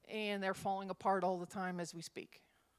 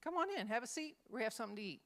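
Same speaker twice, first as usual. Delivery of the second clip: inviting; 3 semitones higher, much faster than usual. Shown as a demonstration. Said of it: "Sounds like an invitation".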